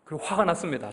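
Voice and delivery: ordinary talk, nothing marked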